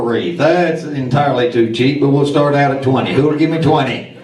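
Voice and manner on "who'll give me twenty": auctioneer. Acted. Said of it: "our auctioneer".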